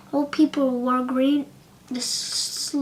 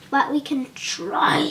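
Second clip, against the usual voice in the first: timid whisper. Acted. Lion speaks timidly.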